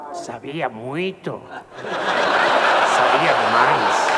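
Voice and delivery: low, slow deadpan reply; deadpan killer. Acted. The killer answering the barman, low and cold.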